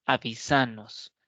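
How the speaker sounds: acento en "ni": avisanos, lento; "avisanos" con fuerza en la penúltima sílaba; voseo, avisanos. Shown as a demonstration. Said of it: "nosotros decimos". (dilo como en el voseo: avisanos)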